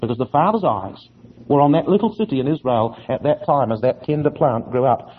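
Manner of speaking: ordinary talk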